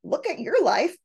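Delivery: mildly acted indignation, rising in pitch; mock-angry and defensive. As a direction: act out an offended retort. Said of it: "You're really angry".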